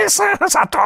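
very high stammering call; high servant voice. Acted. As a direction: stutter the title up high. Servant voice addressing magistrate.

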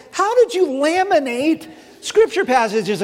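amazed laughing question. Retold or imitated. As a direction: ask it half laughing in wonder.

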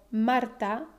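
Marta with the first syllable strong, MAR-ta; stress on penultimate syllable. Shown as a demonstration. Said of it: "es la penúltima sílaba".

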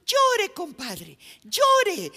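loud, high, drawn-out yell; shouted calling out. Acted. Friend on the pier to drowning compadre, calling out loudly. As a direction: call out to someone down in the water. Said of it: "el que estaba en el puente le gritaba".

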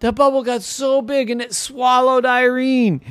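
high, excited narration; dramatic storytelling. A narrator's reading. Narrator telling how the giant bubble swallowed Irene, excited. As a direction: tell it high, as a huge event.

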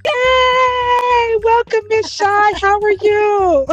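high, bright puppet frog voice; squeaky excited frog greeting; Kermit the Frog voice. Acted. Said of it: "in my Kermit the Frog voice".

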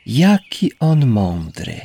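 slow, thoughtful admiring; pensive. A narrator's reading. Rose musing about the clever snail, slow and pensive. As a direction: muse on it slowly. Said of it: "rzekła róża w zamyśleniu".

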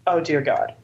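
soft, weary groan of dread; quiet muttered dismay. Retold or imitated. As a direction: sigh it out under your breath. Dreading the familiar opponent.

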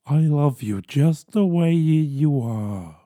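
slow, gentle Mister Rogers impression. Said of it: "I'm either Mister Rogers".

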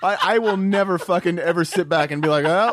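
hammed-up old Southern man, laughing; old Southerner. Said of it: "me too".

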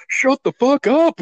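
hammed-up high goon line; imitating the henchman. Retelling henchman shooting the cop.

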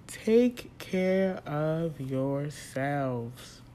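drawn out very slowly, earnest plea; slow pleading. Real, not acted. Begging listeners to stay safe, slow sincere plea. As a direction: stretch every word like a heartfelt plea. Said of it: "I beg you".

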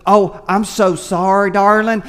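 lightly imitated Southern lady; Southern accent. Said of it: "You must be from the South".

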